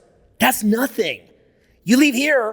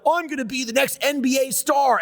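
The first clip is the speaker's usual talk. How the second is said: mock eager dreamer; 5 semitones higher than usual. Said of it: "you're like".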